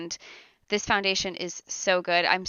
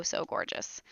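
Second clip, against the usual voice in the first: breathy whisper of delight; whispered gush; 11 semitones lower, 11 dB quieter than usual. Real, not acted. To viewers about her makeup, a whispered gush. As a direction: drop to a whisper, admiring the finish. Gushing over foundation finish.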